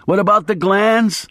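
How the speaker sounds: snarled. A narrator's reading. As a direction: snap it out, wired and desperate. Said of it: "I snarled".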